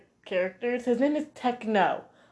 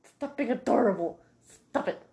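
gushing squeal; 6 semitones higher than usual. Retold or imitated. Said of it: "I was like".

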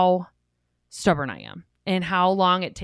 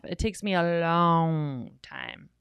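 slow; 2 semitones lower, slower than usual. Shown as a demonstration. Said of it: "you've seen us on this podcast".

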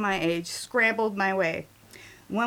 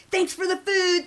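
higher-pitched cheerful call-out; breezy parting call; 8 semitones higher than usual. A narrator's reading. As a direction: toss thanks out while bolting. Acted parting call from fleeing dudes.

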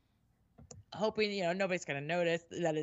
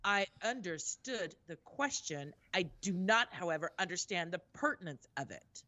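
measured, deliberate comeback; pointedly formal retort; 2 semitones lower than usual. Retold or imitated. Traveler answering a condescending customs officer, pointedly formal. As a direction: put the officer in his place.

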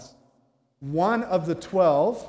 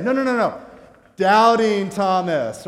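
exasperated correction; 4 semitones higher, 8 dB louder than usual. Acted. Newcomers finally naming doubting Thomas to gatekeeper, exasperated correction. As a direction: spell it out loudly for someone not getting it.

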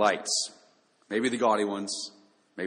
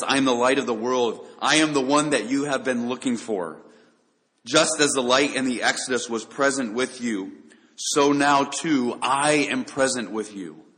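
proclaiming. Acted. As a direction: declare "I am the light of the world" boldly, leaning on "light". Jesus's words, proclaimed again.

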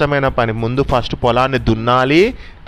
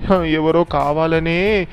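sorrowful sparrow; 3 semitones higher than usual. Acted. Sparrow telling the animals her field is ruined, higher and sad. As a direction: pitch up and drag the words in grief. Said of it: "అని చాలా బాధపడుతుంది".

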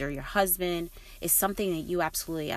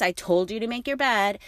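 feisty; 4 semitones higher, 5 dB louder than usual. Retold or imitated. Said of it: "sounds like I'm kind of feisty".

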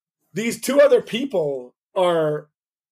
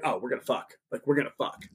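hushed, much softer seductive murmur; imitated whisper; 5 semitones lower, 10 dB quieter, faster than usual.

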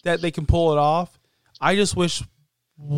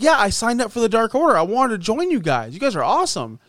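eager; 6 semitones higher than usual. Retold or imitated. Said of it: "He's like".

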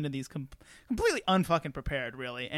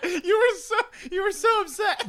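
high squeaky laughing words; 13 semitones higher, 4 dB louder than usual. Real, not acted. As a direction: laugh through it, pitch way up. Laughing at friend's reaction.

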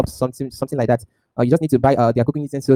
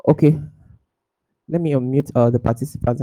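corrupted glitchy audio. Real, not acted. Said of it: "Audio is cutting out".

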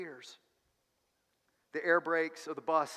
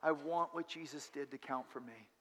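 modeled prayer. Shown as a demonstration. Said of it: "in your heart and say".

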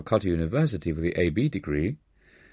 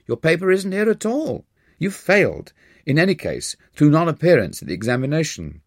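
lightly voiced professor, much higher and pleased; mild gloat, pitched well up; 7 semitones higher than usual. Professor telling student he never sat the exam, mildly gloating.

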